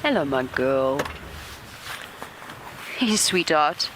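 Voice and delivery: soft, fond hello to an animal; tender greeting. Real, not acted. Guide greets the lioness softly so as not to startle her.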